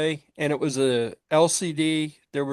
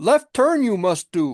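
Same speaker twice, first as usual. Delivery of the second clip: put-on backwards-talking creature voice, higher; 4 semitones higher, 4 dB louder than usual. Giving an example of a novelty GPS voice pack: Yoda voice. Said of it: "Yoda talking backwards".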